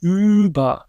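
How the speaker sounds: "über" with a rounded front ü, lips pushed forward. Shown as a demonstration. A linguist showing the rounded front vowel in "über". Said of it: "have to really round your lips to get that ü sound".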